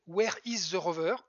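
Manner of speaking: English words in a plain French accent; French-accented English with no attempt to sound native. Shown as a demonstration. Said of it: "je vais le faire sans l'accent anglais".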